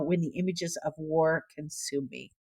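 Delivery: tearing up, fading away on the last words; choked up. Real, not acted. Reading a moving account aloud, choked up. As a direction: voice sinking very soft as tears come. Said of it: "now I'm crying".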